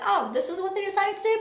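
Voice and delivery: high-pitched sceptical reaction; doubtful surprise. Retold or imitated. Quotes her doubtful first reaction.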